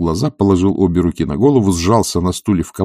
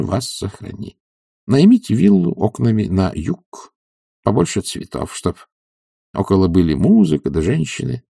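higher, brisk doctor handing out orders; a self-assured physician lecturing his patient; doctor's voice; 5 semitones higher than usual. Acted. Doctor prescribing a regimen to Oblomov, confidently.

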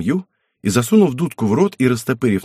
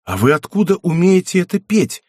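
Zbyszko's startled, raised outcry; loud exclaim; 6 semitones higher than usual. A narrator's reading. Zbyszko, startled by the song, exclaims loudly. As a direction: blurts it out in amazement. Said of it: "громко воскликнул".

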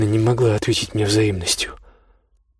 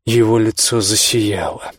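usual speaking voice

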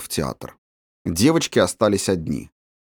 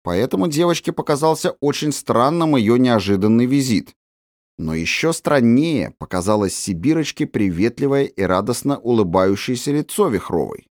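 usual speaking voice

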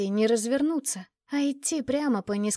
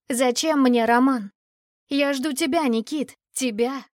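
hysterical cry; 2 semitones higher, 4 dB louder than usual. Acted. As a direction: cry Зачем мне Роман out in desperation. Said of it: "на истеричный крик".

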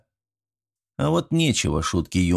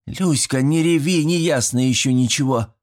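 put-on girl voice; 6 semitones higher than usual. A narrator's reading. Girl calming a crier.

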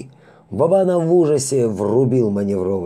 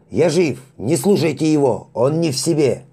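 higher, louder urgent calls; loud shout; 6 semitones higher, 4 dB louder than usual. Acted. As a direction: insist loudly you're alive. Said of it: "громко выкрикнул Вабана".

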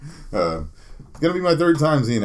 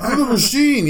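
loud, much higher mock bellow of a comic's catchphrase; Bert Kreischer impression; 5 dB louder than usual. Mocking a comic who strips on stage, loud and high-pitched. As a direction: ham up the shirtless comic's catchphrase. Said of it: "like Bert Kreischer".

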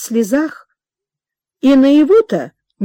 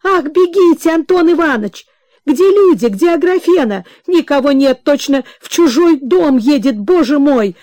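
flustered calling; 5 semitones higher, 3 dB louder than usual. Acted. Flustered mother calls to household.

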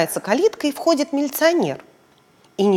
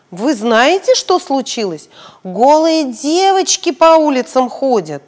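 louder, complaining, slow at the end; indignant passer-by; 3 semitones higher, 5 dB louder than usual. Acted. Passer-by reporting the naked girls, indignant. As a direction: tattle on the girls to the policeman.

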